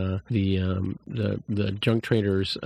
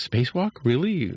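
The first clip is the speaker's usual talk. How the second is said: imitating a nervous, higher-pitched question; mock nervous disbelief, pitched up; 5 semitones higher than usual.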